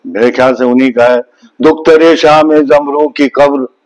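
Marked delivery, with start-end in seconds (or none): 1.6-3.7 poem recital. Shown as a demonstration. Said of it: "Javed Akhtar साहब का एक है".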